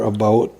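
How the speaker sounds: "about" with a faintly Canadian OU; lightly Canadian-sounding "about"; slightly Canadian vowel. Shown as a demonstration. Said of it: "almost a little Canadian".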